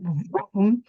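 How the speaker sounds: quick vroom noise; imitated whoosh of speeding off. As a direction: make a vroom sound like being sucked in. Imitates being suddenly sucked in.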